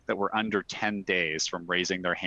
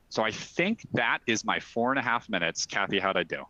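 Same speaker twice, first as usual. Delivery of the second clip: out of breath. Real, not acted. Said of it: "I'm a little out of breath".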